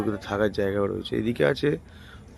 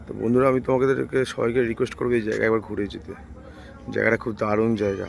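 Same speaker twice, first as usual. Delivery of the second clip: talking through a hoarse throat. Real, not acted. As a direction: voice gone hoarse, rough and worn. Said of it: "আমার গলা ধরে গেছে". (ভাঙা গলায়)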